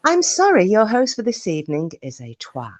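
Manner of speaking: a hint of a recorded phone message; deadpan like an automated announcement; automated call voice. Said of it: "sounded like an automated call".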